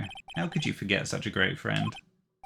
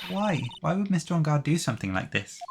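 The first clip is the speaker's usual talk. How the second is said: high, startled cry of why; shocked disbelief; 6 semitones higher than usual. Acted. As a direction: gasp out the question in disbelief. Assistant shocked at reveal.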